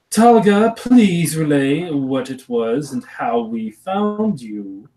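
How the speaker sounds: a genteel aunt explaining family matters. Acted. To her returning niece, a lightly voiced genteel aunt.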